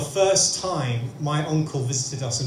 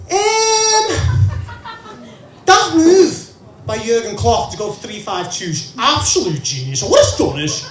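loud, much higher Scouse pundit; Scouse football analysis, pitched up; Scouse accent; 10 semitones higher, 6 dB louder than usual. Retold or imitated. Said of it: "does a great job with the Scouse accent on Sky Sports".

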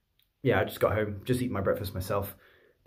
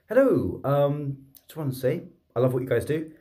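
beam it out like a nervous fan; over-bright greeting; 5 semitones higher than usual. Retold or imitated. Vlogger greeting tired paramedics at their window, chirpy and much higher.

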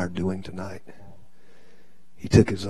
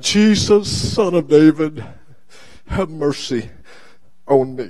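mild, raised-pitch cry for help; mock scream; 6 semitones higher than usual. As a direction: call out as the blind beggar, not at full scream. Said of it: "he's screaming out".

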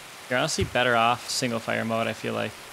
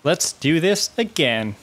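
slow determined; 3 semitones higher, slower than usual. Real, not acted. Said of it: "We're not quitting until".

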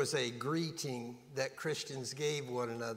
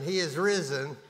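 firm, louder proclamation with some enthusiasm; enthusiastic; 4 dB louder than usual. Shown as a demonstration. Preacher prompting the congregation to respond once more, enthusiastic. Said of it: "one more time with enthusiasm".

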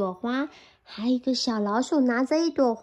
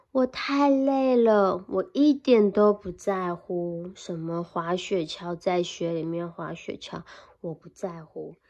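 sleepy bear fading; 5 semitones lower than usual. Acted. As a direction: drift off as the bear.

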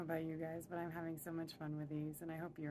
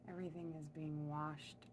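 guided meditation. Real, not acted. Guide leading listeners upward in their imagined elevator, calm meditation voice. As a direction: lead them gently inward, phrase by phrase. Leads a cleansing visualization.

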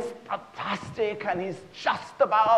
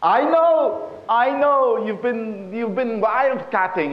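high, loud burst of hurt reproach; wronged wife, starting loud; mock tearful accusation; 5 semitones higher, 4 dB louder than usual. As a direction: accuse your husband in a hammed-up wail. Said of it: "Sadie is just crying her eyes out".

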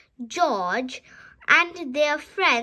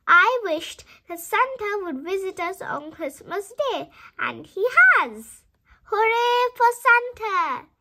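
excited cheer; 4 semitones higher, 4 dB louder than usual. Acted. Peppa cheering at story end.

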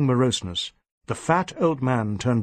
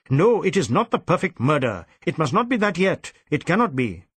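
furious insistence; 3 semitones higher than usual. Acted. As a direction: refuse to accept it, angrily. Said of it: "snapped in sudden fury".

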